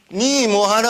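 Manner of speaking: Gyeongsang question lilt; Gyeongsang dialect. Shown as a demonstration. Lecturer repeating the phrase for analysis, Gyeongsang dialect. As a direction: ask it as a Gyeongsang local. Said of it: "경상도 토속자리".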